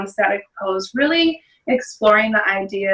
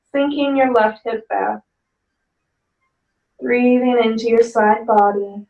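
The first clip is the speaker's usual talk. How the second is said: calm yoga teacher guiding the breath; guided yoga instruction. Acted. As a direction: talk the class gently down into the pose.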